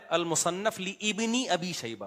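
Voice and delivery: slow لی ابنی with the alif sounded; mispronounced name. Retold or imitated. Mimicking the engineer's reading from the clip, mispronounced name. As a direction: draw out لی ابنی, keeping ابنی's first vowel. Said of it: "engineer صاحب بتا رہے ہیں".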